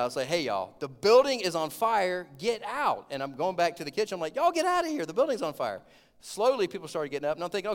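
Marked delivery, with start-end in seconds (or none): 0.3-3.1 loud, high yell at the room. Retold or imitated. Warning the whole restaurant the building burns, loud yell. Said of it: "So I finally yelled out". 4.4-5.8 shouted warning. Retold or imitated. Shouting at diners heading to kitchen.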